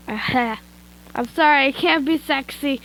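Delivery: laughing through it, slow; laughing apology. Real, not acted. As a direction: break up laughing mid-line.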